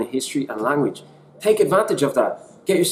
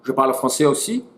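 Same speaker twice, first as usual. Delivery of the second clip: French; faster than usual. Shown as a demonstration. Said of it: "I actually speak five".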